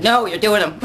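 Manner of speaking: a mild firm no to herself; stern self-talk. Retold or imitated. Retelling ordering herself to do the stairwells, mildly stern. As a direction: lightly play the stern inner coach. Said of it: "Got stern with myself".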